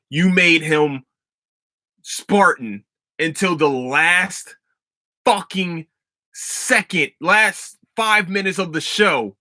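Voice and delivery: high, slow, exasperated complaining; drawn-out fan outrage at the writers; frustrated rant. Real, not acted. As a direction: stretch out each word in disbelief. Ranting about wasted character arc.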